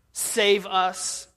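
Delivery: loud imitated cry for help. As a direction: call out to the gods for rescue. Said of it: "begin to start crying out".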